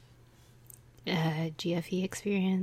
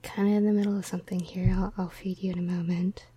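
hurried aside; 4 dB louder, much faster than usual. Real, not acted. Telling the cat to wait.

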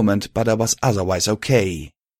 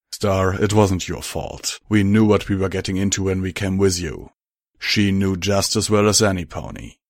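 Steeljack voice. Acted.

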